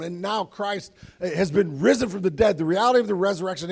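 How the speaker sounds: loud, rising preacher's proclamation; preaching at full force. Acted. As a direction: proclaim it to the whole congregation.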